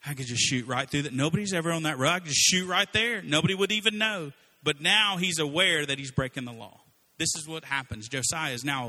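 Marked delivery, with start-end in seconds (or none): 0.0-4.3 building louder, tempted self-talk; mock temptation rising as he talks himself in; tempted inner voice. Driver tempted in traffic, building louder self-talk. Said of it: "I was like".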